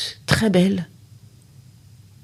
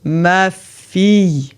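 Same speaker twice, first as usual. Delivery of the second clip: tender father; much slower than usual. Acted. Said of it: "dit l'homme".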